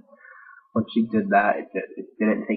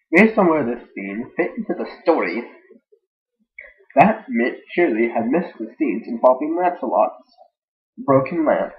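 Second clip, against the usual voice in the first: goofy, bouncy happy narration; herpy derpy; 3 semitones higher, 4 dB louder than usual. Shown as a demonstration. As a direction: read it with silly, swooping cheer. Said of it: "this voice".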